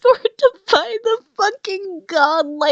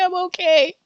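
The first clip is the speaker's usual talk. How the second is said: crying laughing; 3 semitones lower, faster than usual. Real, not acted. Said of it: "even if I sound like I'm crying".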